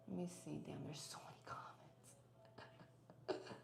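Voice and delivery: very soft, near-whispered aside; talking to herself. Real, not acted. Streamer scanning many chat comments, murmuring to herself. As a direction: murmur it under your breath.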